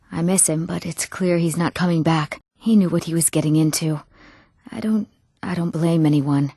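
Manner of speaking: understated, low sadness; resigned grief. Acted. Grieving someone who won't return.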